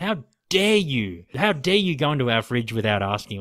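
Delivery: play-acted outraged woman's scolding, yelling. Retelling a friend's mother catching them at the fridge: imitating a mother yelling. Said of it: "the mother full on yelled at me".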